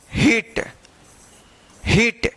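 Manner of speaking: हीट repeated, long "ee", crisp final t; model reading of heat. Shown as a demonstration. Teacher drills learners on the reading, हीट twice, separately. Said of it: "क्या पढ़ेंगे?".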